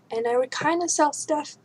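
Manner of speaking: talking through hiccups; hiccuping mid-sentence. Real, not acted. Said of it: "I have to hiccup".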